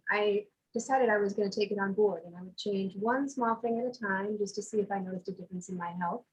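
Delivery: muffled, far from the mic. Real, not acted. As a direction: speak muffled as if away from the microphone. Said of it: "You're really muffled".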